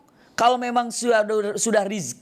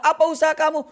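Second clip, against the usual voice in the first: indignant question; 10 semitones higher, 3 dB louder, faster than usual. Acted. Student argues with friends.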